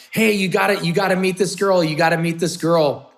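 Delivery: eager friend. Retold or imitated. Friend urging him to meet a girl, eager and insistent.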